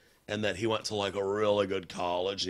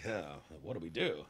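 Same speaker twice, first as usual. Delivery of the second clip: put-on old newsreel boss voice, fast at the end; a hint of a 1940s guy. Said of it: "The Anthony Cumia nineteen forties guy voice".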